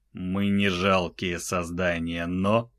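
медленный, тихий и безжизненный; говори медленно, без эмоций; мёртвый ледяной голос. Acted. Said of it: "мёртвым, криогенным голосом". (медленный мёртвый голос)

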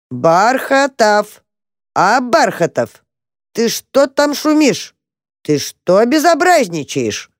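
slow, drawn-out scolding call from afar; stern wife calling. A narrator's reading. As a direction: call him out like a strict wife woken up. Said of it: "послышалось из глубины норы".

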